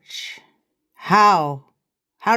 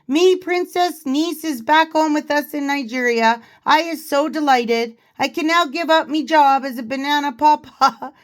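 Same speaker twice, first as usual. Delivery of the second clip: hammed-up Nigerian accent, pitched higher, breaking into giggles; mock Nigerian accent; 4 semitones higher than usual. Vlogger reading a parody quote aloud, mock Nigerian accent. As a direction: play a giggling aunt boasting in a put-on Nigerian accent. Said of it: "Hope you like my accent".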